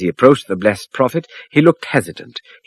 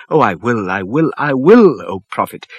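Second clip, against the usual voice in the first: joyful cry; 2 semitones higher, 5 dB louder than usual. A narrator's reading. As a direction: promise it with relief and joy. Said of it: "the man cried joyfully".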